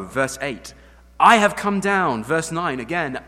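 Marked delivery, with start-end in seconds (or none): 1.2-2.2 higher, louder, slow proclamation; booming declaration. Acted. Preacher booming God's words to Moses, slow and loud. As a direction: boom it out slowly. Emphatic God quote.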